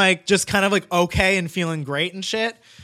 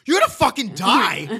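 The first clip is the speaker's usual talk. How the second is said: high-pitched mock panic of a tripping friend; hammed-up high panicky outburst; drugged panic; 5 semitones higher than usual. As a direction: imitate a friend blurting out in drugged alarm. High friend panics in retold story.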